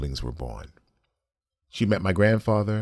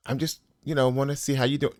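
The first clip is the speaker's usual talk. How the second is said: mock cousin voice; 8 semitones higher, faster than usual. Voicing cousin's evasive reply.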